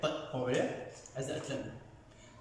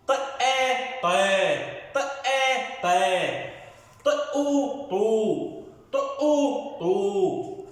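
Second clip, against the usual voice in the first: sound blending drill; 4 semitones higher than usual. Shown as a demonstration. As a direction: break ط and آ apart, then join them as طا. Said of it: "مرة ثانية".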